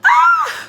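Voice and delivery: very high, loud shriek amid laughter; high squeal. Real, not acted. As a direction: squeal out loud, far above normal pitch. Exclaims amid joking and laughter.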